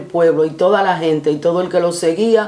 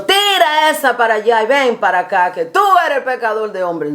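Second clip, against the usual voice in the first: mock rough call; 5 semitones higher than usual. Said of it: "No le dijo".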